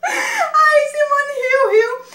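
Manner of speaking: high and slow, dissolving into laughter; words stretched by real laughter; laughing. Real, not acted. Laughing while recalling Simone's reaction.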